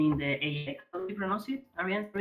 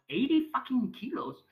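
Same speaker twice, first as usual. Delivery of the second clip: shocked disbelief; 10 semitones higher than usual. Retold or imitated. Retelling his reaction to a friend's boast, pitched-up shocked disbelief. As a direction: pitch jumps way up on eighty fucking kilos.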